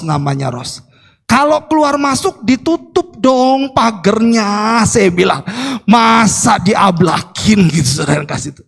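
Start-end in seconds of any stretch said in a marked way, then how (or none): 1.2-4.8 higher, drawn-out scolding of a helper; retold raised-voice scolding. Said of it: "agak tinggi nadanya". 5.9-8.0 drawn-out, mock-indignant telling-off; retold annoyed scolding. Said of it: "agak tinggi nadanya".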